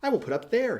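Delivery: a small bird, peeved and pouting; little swallow. A narrator's reading. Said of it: "he cried".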